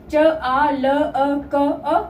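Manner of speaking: चालक split into च, आ, ल, अ, क, अ; each short sound given separately; sound-by-sound breakdown. Shown as a demonstration. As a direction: spell out चालक by its sounds, evenly.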